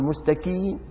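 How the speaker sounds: مستقيم with a plain k, "mustakee"; qaf as kaf. Shown as a demonstration. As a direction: front the ق in مستقيم to a k. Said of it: "لا، مشكلة هي".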